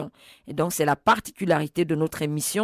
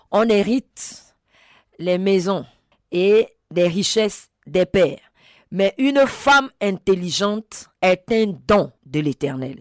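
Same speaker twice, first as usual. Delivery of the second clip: scripture proclamation; 2 semitones higher, 3 dB louder than usual. Real, not acted. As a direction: proclaim the verse in weighty, separated phrases. Reads out a Bible verse emphatically.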